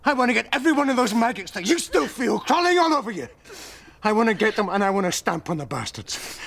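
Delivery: fierce promise to protect her; fierce and passionate. Acted.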